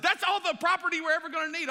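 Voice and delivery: high, loud, pleased with himself; proud boast. Retold or imitated. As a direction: brag about the land. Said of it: "I said".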